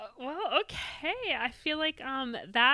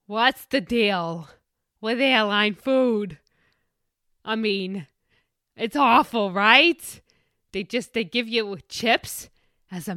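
Seinfeld impression; 7 dB louder, slower than usual. Seinfeld-style stand-up bit.

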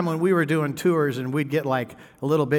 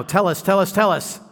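eager pleading; 6 semitones higher, 6 dB louder than usual. Retold or imitated. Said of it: "is going".

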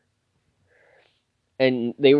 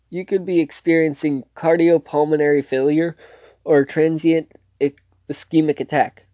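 higher-pitched, mildly cross retelling; mildly mad; 5 semitones higher than usual. Retold or imitated. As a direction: imitate someone crossly warning a patient. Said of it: "is mad because".

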